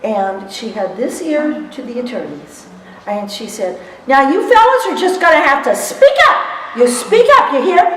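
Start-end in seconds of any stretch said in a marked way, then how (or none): 4.1-7.8 loud, high bossy Louisiana lady; Dottie's Southern drawl. Retold or imitated. Dottie tells the attorneys to speak up, loud and high. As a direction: order the men to speak up, sassy. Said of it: "That's how she talked".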